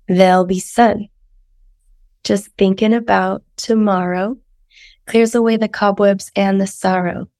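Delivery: hoarse, sultry sick voice. Acted. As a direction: read lyrics in a sick croak. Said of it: "Here's the lyrics. / enjoy my sick voice".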